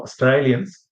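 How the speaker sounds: broad Aussie "Australians", first A turned to "eye"; Australian accent. Shown as a demonstration. Showing students how Aussies name themselves, Australian accent. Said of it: "that's very typical Aussie".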